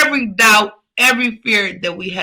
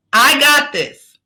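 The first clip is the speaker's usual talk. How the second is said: louder, slow, firm declaration; said like she means it; 4 semitones higher, 4 dB louder, slower than usual. Shown as a demonstration. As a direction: plant each word, I got this. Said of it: "say it like we mean it".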